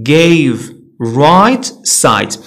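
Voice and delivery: gave with a stretched "ay"; long vowel. Shown as a demonstration. Teacher listing examples of silent E, long vowel. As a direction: draw out the vowels in gave, right, side. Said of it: "كتخلي الفاول طويل".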